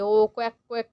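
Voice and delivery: a light mock quack; duck quack. Shown as a demonstration. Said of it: "अब जो duck है वो कैसे बोलती है?".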